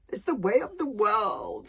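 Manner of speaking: loud, slow, grand monster voice; a giant savouring every word of his philosophy; pompous dragon philosopher. Acted. Dragon lecturing Hiccup on life, loud and grandiose.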